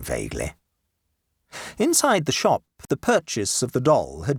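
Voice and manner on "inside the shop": usual speaking voice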